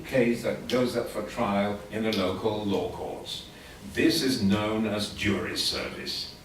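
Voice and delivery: a teacher reading a text to show English rhythm; steady reading pace, stresses on a regular beat; rhythmic reading aloud. Shown as a demonstration. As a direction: read it out evenly with regular stress beats. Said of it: "if I wanted to read this next text".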